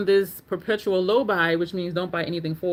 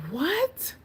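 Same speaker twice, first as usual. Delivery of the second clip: high squeaky double take; a stunned, squealed what; shocked disbelief. Retold or imitated. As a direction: pitch leaps up in stunned disbelief. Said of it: "I was just like".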